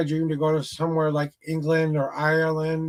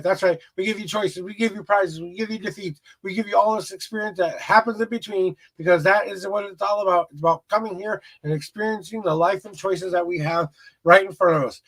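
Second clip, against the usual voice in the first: motivational spiel. Acted. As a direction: preach life advice like a hype speaker. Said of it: "there's my little spiel".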